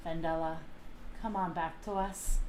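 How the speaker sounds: calm, measured appeal. Acted. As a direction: calmly coax someone back. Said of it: "calmly say".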